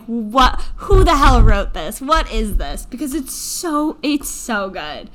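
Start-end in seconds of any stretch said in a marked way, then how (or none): 0.0-2.8 astonished. Retold or imitated. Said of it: "you're just like".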